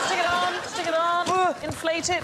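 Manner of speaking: high, urgent commands; crew shouting instructions. Acted. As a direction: hurry them through the drill. Host continues urgent drill.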